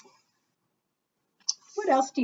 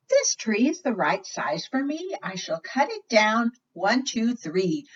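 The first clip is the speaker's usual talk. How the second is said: put-on little girl voice; 3 semitones higher than usual. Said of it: "a little girl came by and said".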